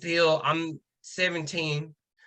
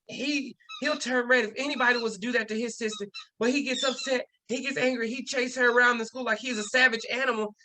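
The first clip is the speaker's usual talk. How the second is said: higher-pitched, overblown accusation; indignant principal; 6 semitones higher than usual. Retold or imitated. Principal accusing the student in front of grandma, indignant. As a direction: imitate an alarmed official building a case.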